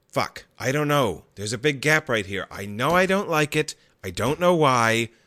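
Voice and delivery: put-on fed-up, exasperated, frustrated inner voice. Acting out a thinker's ruling personality answering the skeptic: frustrated ruling personality. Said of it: "the ruling personality's like".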